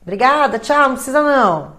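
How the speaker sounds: curt thanks, no need; dismissive goodbye. Retold or imitated. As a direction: politely hang up on them.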